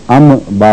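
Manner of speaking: "ام با" with a plain, separate m; wrong clear m. Shown as a demonstration. Teacher contrasting mistakes, "ام با" with clear m. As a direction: sound the m fully in "ام با". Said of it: "بھی نہیں پڑھا".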